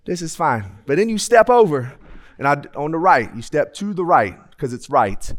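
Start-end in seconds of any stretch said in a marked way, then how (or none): 0.0-0.6 soft, mildly resigned approval; lukewarm acceptance. Acted. Diner settling for a McChicken, lukewarm acceptance. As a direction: settle for it without enthusiasm.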